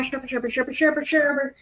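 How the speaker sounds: chittering creature call; squeaky critter chatter; creature chirping. Acted. GM voices creature noise.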